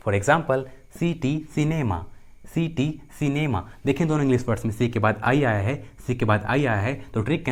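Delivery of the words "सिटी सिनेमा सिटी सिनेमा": "सिटी, सिनेमा" word by word, starting on s; C pronounced as s. Shown as a demonstration. Teacher giving examples of the second rule, careful s demonstration. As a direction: model "सिटी" and "सिनेमा" slowly with a clear s. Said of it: "सी का उच्चारण स होता है".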